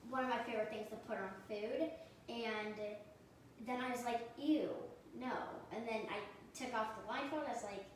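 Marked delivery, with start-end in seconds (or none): 4.4-5.3 disgusted. Retold or imitated. Retells disgust blindfolded.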